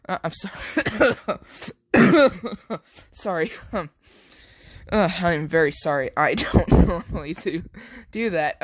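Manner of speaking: coughing through laughter, apologising; can't stop cracking up, choke it back; laughing fit. Acted. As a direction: Deku trying to apologise mid laughing fit. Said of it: "laugh out loud".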